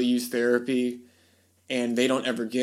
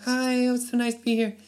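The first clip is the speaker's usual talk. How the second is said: very high, delighted celebrity imitation; a famous singer's voice; 10 semitones higher than usual. The singer agrees to meet the wife, in a very high imitation. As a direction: squeak out a sweet eager yes. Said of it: "you killing me with that voice".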